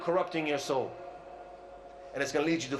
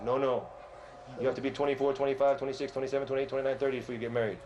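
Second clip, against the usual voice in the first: lower-pitched, lightly voiced dad laying down rules; a hint of a dismissive father; refusing parent; 4 semitones lower, faster than usual. Parent answering a son who wants to marry, lightly voiced refusal.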